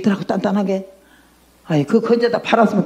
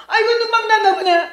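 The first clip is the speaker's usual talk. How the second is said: high, startled exclamation on waking; astonished cry; 11 semitones higher, faster than usual. Retold or imitated. 열두 시간 자고 깨어 몸이 나은 걸 안 환자, 놀라서 외치며. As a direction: cry out in sudden amazement.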